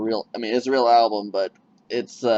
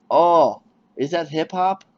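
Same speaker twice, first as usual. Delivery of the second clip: mock clerk; 6 semitones higher, 6 dB louder, slower than usual. Retold clerk question.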